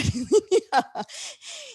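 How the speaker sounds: very high-pitched giggling; amused giggle. Real, not acted. Teacher unwilling to look ugly alone, amused giggle. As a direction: giggle at your own joke. Laughs again at ugly-face joke.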